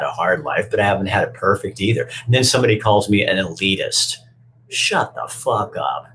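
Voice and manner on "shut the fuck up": slow dismissive. Real, not acted. Angry at critics.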